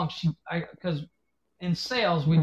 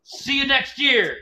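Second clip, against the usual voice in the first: high, slow taunting; smug slow goodbye to a flattened kid; mocking farewell; 8 semitones higher, 5 dB louder, slower than usual. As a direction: drag it out to gloat.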